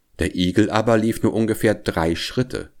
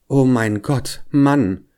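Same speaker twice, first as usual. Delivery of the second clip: mild, higher-pitched wail of dismay; 5 semitones higher, slower than usual. A narrator's reading. Hedgehog wife reacts to her husband's bet, wailing in dismay. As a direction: exclaim it like a lamenting wife. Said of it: "fing Frau Igel an zu jammern".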